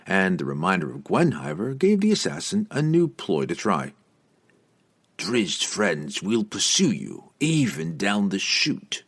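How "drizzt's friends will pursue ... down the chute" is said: slow, grim warning; a grim, measured threat. Acted. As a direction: lay it out darkly and slowly. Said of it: "Entreri remarked grimly".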